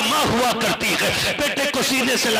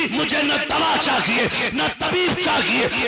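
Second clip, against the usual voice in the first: tearful plea; 5 semitones higher, slower than usual. Acted. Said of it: "तब बेटे ने रो के कहा था".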